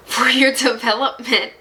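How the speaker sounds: breaking into a laugh mid-word. Real, not acted. Reader to viewer, laughing at what spirit says. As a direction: giggle through the word. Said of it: "I'm sorry I'm laughing".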